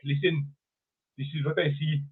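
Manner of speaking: lightly put-on Indian accent. Host voices the official in the booth, mock Indian accent. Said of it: "I don't know why he's Indian".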